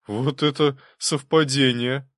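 slow, amazed exclamation; surprised. A narrator's reading. Prince amazed at the coincidence. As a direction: marvel at the coincidence. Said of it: "удивился Голицын".

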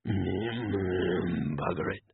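slow, gruff muttering tramp; grumbling foul old Ron; mumbling old beggar. A narrator's reading. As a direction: mumble it like a mad old vagrant.

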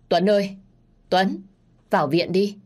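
urgent shout to Tuấn; calling out. Acted. Neighbour shouting to Tuấn to go to hospital. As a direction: call him loudly from afar.

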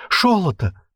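Шолото high, with ш for з; lisped shout. A narrator's reading. Struggling captive crying out, lisped Шолото. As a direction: lisp Шолото desperately. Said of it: "забился Клип".

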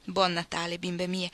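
augurio pacato di una madre; tenerezza materna. Acted. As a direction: rispondi alle figlie con affetto tranquillo. La madre risponde agli auguri. (tenerezza materna, pacata)

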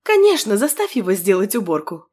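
mocking chuckle in the voice; sarcastic, amused jab; smirking. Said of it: "хмыкнула Нинель".

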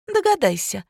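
high, taunting challenge; defiant. A narrator's reading. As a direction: toss it back mockingly. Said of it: "с вызовом бросила Аня". (с вызовом, высоким голосом)

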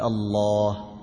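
"الله" with a deep, thick heavy lam. Shown as a demonstration. Teacher repeats the correct thickened lam in Allah. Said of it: "نقول".

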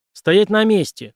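loud, slow police order; shouting command. A narrator's reading. Cop yelling at a suspect to stop. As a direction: bark the order to freeze. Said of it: "крикнул Стейси".

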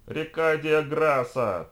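high, loud, long-drawn battle cry; last defiant shout, stretched out; final cry. A narrator's reading. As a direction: scream it slowly over a roaring crowd. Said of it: "последний крик Консуэла".

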